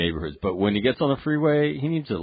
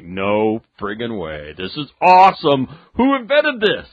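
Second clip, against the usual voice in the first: gleeful disbelief; 5 dB louder than usual. Retold or imitated. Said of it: "I'm like".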